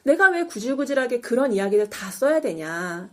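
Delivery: measured, low-key acted plea; mildly voiced, composed argument; calm persuasion. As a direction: reason with them evenly, slowing down. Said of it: "차분하게 설득을 합니다".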